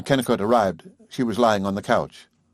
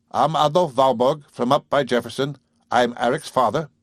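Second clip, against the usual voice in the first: put-on a touch higher old farmer's voice; rough farmer; 3 semitones higher, 3 dB louder than usual. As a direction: state it with blunt pride. Father introduces himself.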